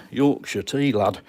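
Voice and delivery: a hint of broad Yorkshire; attempted Yorkshire accent. Streamer admitting he can't do it, attempted Yorkshire accent. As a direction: put on a rough Yorkshire accent. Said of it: "Yorkshire accent, I'm afraid".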